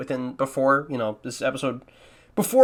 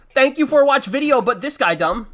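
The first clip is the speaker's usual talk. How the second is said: higher and louder, hammed-up broken-English dimwit; mocking his old video by imitating it in a hammed-up dumb voice; 8 semitones higher, 5 dB louder than usual. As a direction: parody your own outro as a dimwit. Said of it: "It just sounds like I'm dumb".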